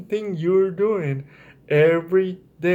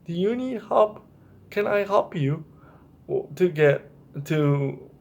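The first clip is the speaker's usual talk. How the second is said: gentle offer of help. Shown as a demonstration. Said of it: "Ask her".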